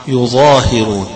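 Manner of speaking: يظاهرون said as yuẓāhirūn with a u opening; modelling Asim's reading of يظاهرون. Shown as a demonstration. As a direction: give يظاهرون with yu- and a long ā. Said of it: "غير عاصم اللي هيقرأها".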